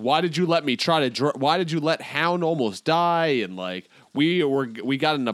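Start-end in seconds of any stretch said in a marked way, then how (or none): 0.0-3.4 imitated yell, pitch pushed up; mock yelling. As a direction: act out an angry yell at talking volume. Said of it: "I'm yelling".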